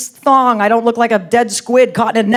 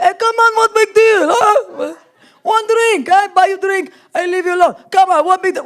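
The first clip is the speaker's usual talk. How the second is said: put-on high-pitched, insistent Arab-accented pleading; pushy Arab accent; 7 semitones higher than usual. Arab man won't take no, pushy mock Arab accent. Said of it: "they don't take no for an answer".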